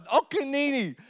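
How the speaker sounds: high, whiny toddler imitation; high frustrated toddler voice. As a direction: mimic a frustrated little girl.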